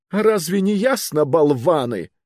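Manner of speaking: high, loud snapping insult; angry bark. Acted. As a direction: snap at the fools. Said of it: "рявкнул его величество".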